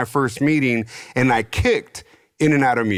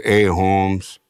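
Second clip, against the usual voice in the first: wannabe gangster. Retold or imitated. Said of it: "all gangster".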